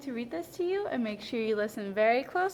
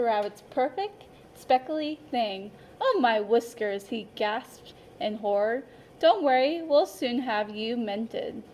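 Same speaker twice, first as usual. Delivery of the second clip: lively, expressive picture-book narration; storyteller voice for a class of young children; reading to children. A narrator's reading. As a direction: read it like story time for little kids. Teacher reads picture book aloud.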